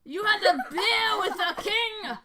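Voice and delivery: high, loud, incredulous dwarf voice; astonished dwarf. Acted. Dwarf hearing his brother drank with the king, amazed. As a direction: ask it in laughing amazement.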